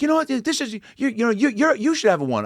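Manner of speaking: high, sputtering Larry voice; high fumbling Larry David; Larry David impression. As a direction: stammer out the comeback as Larry. Retelling Larry David's rebuttal.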